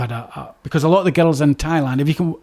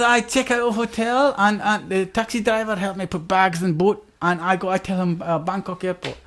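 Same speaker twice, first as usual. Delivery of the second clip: 1 mock Swedish accent; 3 semitones higher, 3 dB quieter than usual. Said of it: "He said".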